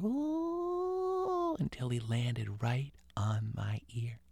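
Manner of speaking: whisper. A narrator's reading. Ghost creeps close, whispered narration.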